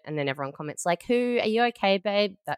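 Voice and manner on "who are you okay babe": mock concerned friend. Mocking concerned commenters.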